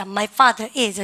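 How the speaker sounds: slow, measured English model phrase; teacher's deliberate drill phrase; repeat-after-me model. Shown as a demonstration. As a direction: say it slowly for students to copy. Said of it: "해보세요".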